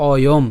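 "অয়ম" as o-yom; "অয়ম" closed on the m; pronunciation demo. Shown as a demonstration. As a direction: say "অয়ম" with an opening o. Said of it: "এখানে উচ্চারণটা কেমন হবে".

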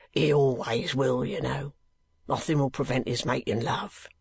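a plain working man, unhurried; lightly voiced asylum keeper. Keeper speaks.

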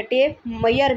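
मेयर said as 'mayar', no 'j' sound; alternative pronunciation. Shown as a demonstration. Teacher offering another way to say tape measure, y sound. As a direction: say टेप मेयर with a y in the middle. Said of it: "भी आप कह सकते हैं".

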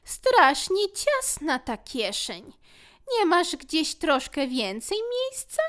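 high, slow complaining creature; tiny fussy creature voice; whiny little fear. Acted. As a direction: grumble about the cramped pocket.

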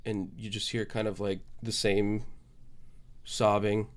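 usual speaking voice

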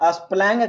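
"स्प्लैंग", spelling squashed into "splang"; misread spelling. Shown as a demonstration. Teacher mimicking students' wrong reading, misread as "स्प्लैंग". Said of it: "गलत पढ़ रहे हैं".

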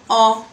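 "آه" with a heavy back, open 'ah'; emphatic A. Shown as a demonstration. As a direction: say "آه" full and rounded from the back of the mouth. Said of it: "فبيتنطق مفخم".

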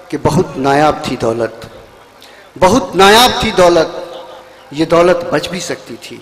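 slow, measured verse with falling close; lingering couplet delivery; poetry recitation. Acted. Poet recites ghazal couplets.

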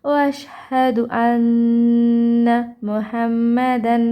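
slow chant, long vowels held; full slow recitation. Shown as a demonstration. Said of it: "দেখুন আমি আরেকবার পড়ি".

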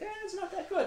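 imitating a dismissive, high-pitched snob; mock unimpressed critic. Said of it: "people are like".

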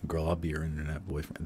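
lightly put-on straight boyfriend voice; a hint of a bro talking to a girl; mock straight internet boyfriend, barely changed; straight guy voice. Shown as a demonstration. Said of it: "let me put on my straight voice".

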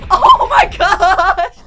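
long, loud, high laughing exclamation; shocked laughter. Real, not acted. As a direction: stretch it out through shocked laughter. Shocked laughing at egg being child.

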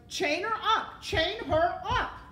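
high, loud repeated command; shouting. A narrator's reading. Rat ordering Mig to chain the princess, shouting. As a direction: yell the order, slowing the repeat. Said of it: "shouted Roscoe".

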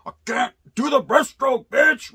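high, loud put-on whine of a struggling swimmer; hammed-up squeal of someone falling behind; mock whiny voice. Storyteller jokingly voicing himself losing the race, high and loud.

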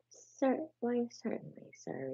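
high, eager and polite; respectful field mouse. Acted. High polite little mouse. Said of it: "replied the field mice respectfully".

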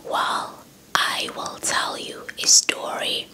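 ordinary delivery

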